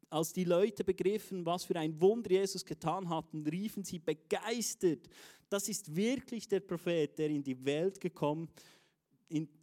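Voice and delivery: measured Bible reading; scripture reading. Acted. Preacher reading John to the church, measured. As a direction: read the verse out slowly and deliberately. Reads a Bible verse aloud.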